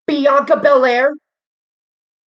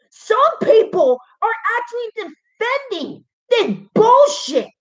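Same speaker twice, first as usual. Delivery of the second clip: higher, voice cracking on bullshit; upset repeat; 4 semitones higher than usual. Real, not acted. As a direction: repeat it near tears in disbelief.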